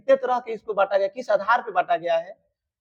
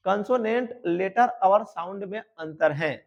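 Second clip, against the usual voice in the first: slow repeat. Shown as a demonstration. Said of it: "फिर से सुनना".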